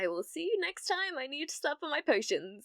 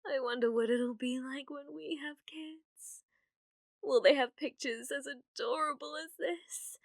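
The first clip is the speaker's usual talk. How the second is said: whisper; 3 semitones higher than usual. Acted. Dreamy private musing on kids.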